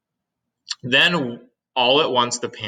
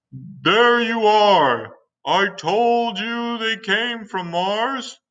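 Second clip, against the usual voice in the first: slow, high triumphant cry; excited cry; 11 semitones higher, 4 dB louder, much slower than usual. Acted. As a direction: crow that you were right. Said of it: "cried the police chief".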